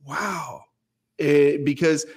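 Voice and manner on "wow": softly imitated awed wow; lit-up amazement. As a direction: breathe out a quiet, amazed reaction, as retold. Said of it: "Rosalia lit up like".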